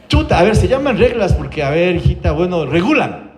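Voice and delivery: hesitant mock groping for an answer; flustered mother. Mamá en aprietos responde a su hija, titubeo imitado. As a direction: imitate a stumped mum stalling. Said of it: "la mamá se queda así también con Parkinson".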